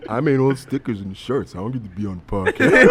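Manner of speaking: sulky, laughing whine, listing everyone else; butthurt girlfriend voice. Retold or imitated. Girlfriend listing who got on the podcast, laughing sulky whine. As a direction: put on the sulk, half laughing. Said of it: "the voice I'm gonna make is a butthurt voice".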